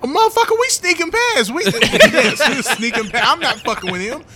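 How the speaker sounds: muffled, behind a hand. Acted. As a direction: talk through a hand over the mouth. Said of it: "all that was muffled".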